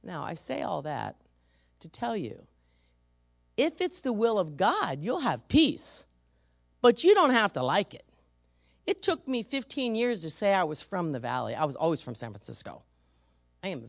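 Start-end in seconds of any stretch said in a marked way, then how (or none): 3.5-8.0 emphatic preaching. Real, not acted. Preacher's punchline.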